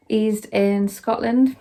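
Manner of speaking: breathless from climbing onto the bed; panting a little between words; out of breath. Real, not acted. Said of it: "Sorry, I'm out of breath".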